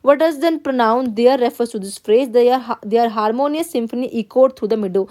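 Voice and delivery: slow, careful classroom read-aloud; teacher reading a text to the class. Acted. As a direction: read the passage word by word, x0.3 pace. Teacher reads question aloud.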